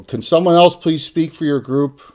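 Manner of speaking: exasperated yell for someone else; yelling over table. Acted. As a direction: call out across a noisy table. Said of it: "she yells over the table".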